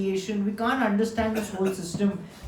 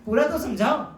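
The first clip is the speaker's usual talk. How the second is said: higher, quick exclaiming in mock disbelief; bewildered plea; 5 semitones higher, faster than usual. A listener baffled by the verse, pleading with God: quick, higher mock disbelief. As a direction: throw up your hands, baffled, and beg to have it explained. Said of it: "हम बोल रहे".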